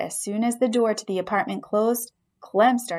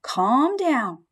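soothing squeak; much slower than usual. Acted. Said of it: "I squeaked soothingly at the beast".

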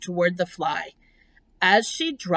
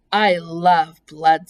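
slow, loud relish in a pleasant voice; thin, pleasant voice; 2 semitones lower, 6 dB louder, slower than usual. Acted. Spider confides her love of blood, slow and pleasant. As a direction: savor it slowly and pleasantly. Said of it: "thin voice grew even thinner and more pleasant".

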